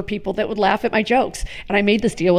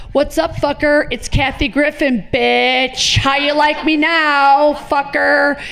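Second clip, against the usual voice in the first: taunt; 5 semitones higher, much slower than usual. Retold or imitated. Prank call taunting the Nazi.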